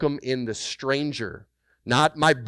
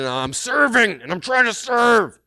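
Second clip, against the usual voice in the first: straining effort; 11 semitones higher, 7 dB louder than usual. Retold or imitated. White-knuckling it, digging heels in.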